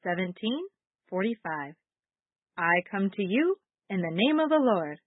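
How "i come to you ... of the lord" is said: reciting verse. Shown as a demonstration. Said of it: "Our memory verse today is".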